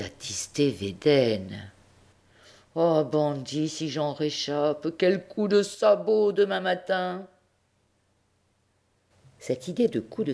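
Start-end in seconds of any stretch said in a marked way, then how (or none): 2.8-7.3 mild mock vengeful vow. The mule vows revenge.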